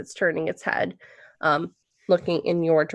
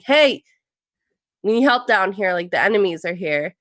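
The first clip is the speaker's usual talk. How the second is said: a mild imitation of that odd accent, louder on hey; imitating Walker's accent; 3 dB louder than usual. DM retells Walker yelling for help downstairs, lightly mimicking his odd accent. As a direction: lightly echo the player's made-up accent. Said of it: "in whatever accent that was".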